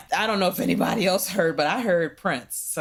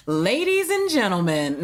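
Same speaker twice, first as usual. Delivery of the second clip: announcer voice. Shown as a demonstration. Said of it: "You're supposed to do it with an announce voice".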